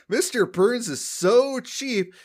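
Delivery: lightly voiced comedian landing a gag; mock comic punchline. Homer joking about Burns to the crowd, lightly hammed. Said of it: "starts off his set by saying".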